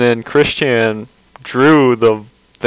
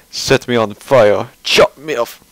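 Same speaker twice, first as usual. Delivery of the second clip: wrong voice for him. Retold or imitated. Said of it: "that's not appropriate voice for him".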